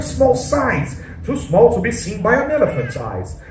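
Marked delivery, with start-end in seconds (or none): 1.2-3.4 put-on rhyming, lilting read-aloud to children; story narration. A narrator's reading. Storyteller reads rhyming tale to the children, lilting narration. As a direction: read the verse with a performer's bounce.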